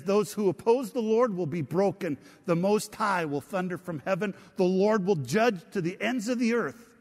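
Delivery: forceful scripture reading. Acted.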